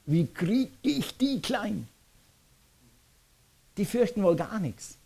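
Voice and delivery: high, musing king's voice; slow, high pondering to himself; baffled king. Acted. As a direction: wonder aloud as a stumped king. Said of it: "wenn ich mich in die Schuhe vom König versetze".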